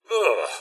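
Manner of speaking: short "ugh" of distaste; disgusted groan. Acted. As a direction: groan in mild revulsion. Disgust at a grim sight.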